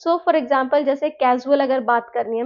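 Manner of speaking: normal talking voice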